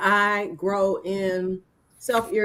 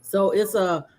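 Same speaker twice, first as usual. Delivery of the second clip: talking while eating leftovers; words round a bite of food; mouth full. Real, not acted. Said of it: "I'm eating some leftovers".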